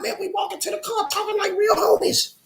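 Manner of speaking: he can't contain it, yelling it out; a burst of hyped-up shouting; excited shout. Real, not acted. Excited retelling of walking with Beto.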